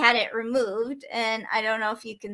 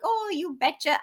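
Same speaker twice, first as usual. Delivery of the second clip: put-on light Minnesota accent, "Oh, you betcha"; a hint of Minnesota twang; Minnesotan accent; 3 semitones higher, 5 dB quieter than usual. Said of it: "my Minnesotan accent".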